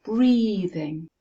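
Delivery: Breathing with a strong first beat, lighter "thing"; stress on first syllable. Shown as a demonstration. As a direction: lean on the start of Breathing. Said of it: "it's at the beginning".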